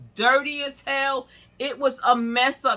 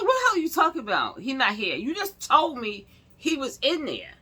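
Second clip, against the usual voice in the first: rapid-fire, higher outburst; angry disbelief; 4 semitones higher, faster than usual. Retold or imitated. Confronting the receptionist who lied, rapid and higher.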